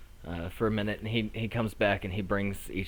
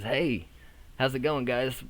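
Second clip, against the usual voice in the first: lightly voiced, upbeat teen host, raised pitch; teen boy host; 5 semitones higher, 3 dB louder than usual. Teen host greeting arriving guests, lightly voiced. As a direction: greet diners as a teenage host, a bit louder. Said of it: "like a teen boy".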